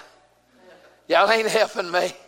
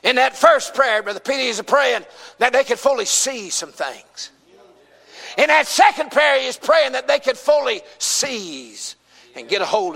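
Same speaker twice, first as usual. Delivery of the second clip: raised pulpit voice, punching key words; emphatic preaching; 5 semitones higher than usual. Real, not acted. Preacher setting out two prayers to his congregation, emphatic preaching. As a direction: drive the points home to the congregation.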